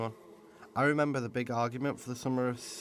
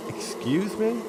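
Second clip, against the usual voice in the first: high, sharp, offended excuse me; indignant surprise; 10 semitones higher, 5 dB louder, slower than usual. Acted. Summer taking offence at Spring's criticism, indignant. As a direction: bristle at the insult.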